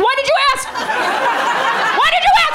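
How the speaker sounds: high, exasperated retort; mock indignant. Comic snapping back at clinic staff, high mock outrage. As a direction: throw it back at them, baffled and annoyed. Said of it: "I was like".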